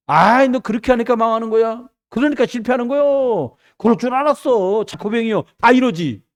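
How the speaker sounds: imitating a reproachful critic; mock scolding. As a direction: scold them as if you saw it coming. Voices people blaming the failed.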